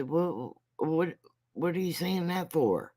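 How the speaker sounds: high-pitched imagined judge questioning; puzzled questioning, pitched well up; incredulous judge. Pretend. Judge looks at her and questions the excuse, mock incredulous.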